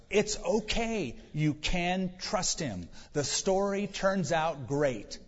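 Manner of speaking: slow, gently reassuring delivery; slow down and comfort them, each word given room. Acted. Imagined reassurance to the disciples.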